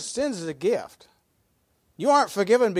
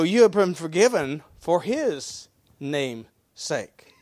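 ordinary talk, nothing marked

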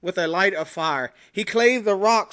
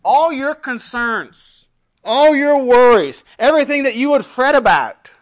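full-force preaching; 6 semitones higher, 9 dB louder than usual. Acted. Opening appeal of the sermon.

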